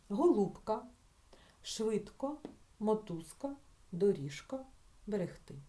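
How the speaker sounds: Голубка, мотузка, доріжка said with unvoiced П, С, Ш before К; deliberately devoiced. Shown as a demonstration. Teacher dictates so pupils think, deliberately devoiced Голубка, мотузка, доріжка. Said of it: "Я навмисно вам вимовляю не дзвінко".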